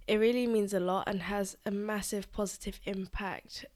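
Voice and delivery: blocked nose, nasal sound; nasally voice. Real, not acted. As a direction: talk with a stuffy nose. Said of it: "as you can probably tell by the nasally voice".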